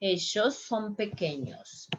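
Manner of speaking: Argentine ellos, said "eshos"; southern South American accent with sh for ll. Shown as a demonstration. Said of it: "more like the southern part".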